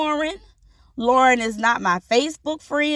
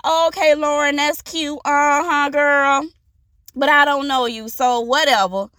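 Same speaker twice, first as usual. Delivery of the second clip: dismissive brush-off. Pretend. Host imagining waving off the guest's kind words, sassy. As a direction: shrug it off with sass. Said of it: "and be like".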